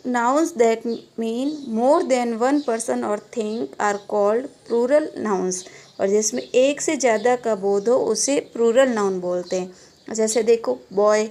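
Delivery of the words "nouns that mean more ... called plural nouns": slow, even dictation to a class. Acted. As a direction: spell it out word by word for students to write. Teacher dictating English definition.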